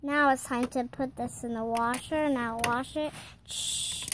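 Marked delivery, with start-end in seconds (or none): 3.4-4.1 a breathy hush to keep it quiet; soft whispered shh; whispered shush. Acted. Shushing while playing with toys.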